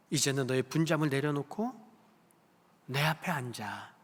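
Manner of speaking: soft invitation. Acted. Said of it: "그렇게 말씀하고 계심을 믿으시기를".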